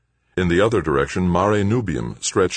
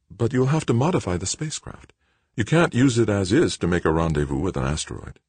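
lightly voiced woman, raised pitch; higher register, raising a practical objection; hint of a sceptical mother; mother, questioning; 6 semitones higher than usual. Narrator voices the mother in dialogue.

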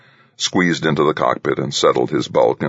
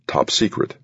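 robot voice; 5 semitones higher than usual. Acted. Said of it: "a mechanical voice".

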